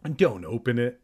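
understated plea; pleading. Acted. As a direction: beg with a touch of worry. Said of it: "Evan pleaded".

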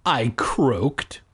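measured audiobook read; story narration. A narrator's reading. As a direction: narrate it steadily, line by line. Reads the story aloud.

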